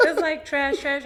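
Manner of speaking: laughing. Retold or imitated. To her friend about men, laughing. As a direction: laugh it off as trash.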